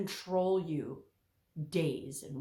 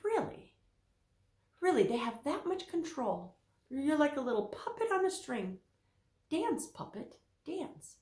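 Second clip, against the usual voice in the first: mock sarcastic reply; 7 semitones higher than usual. Her sarcastic reply to clients.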